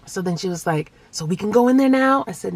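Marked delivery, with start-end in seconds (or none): 1.1-2.2 put-on high, loud child's question; imitated eager daughter. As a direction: ask mom hopefully in a kid voice. Voices eager daughter asking.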